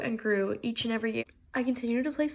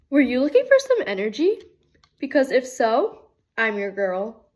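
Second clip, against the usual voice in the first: energetic pitch; 6 dB louder than usual. Acted.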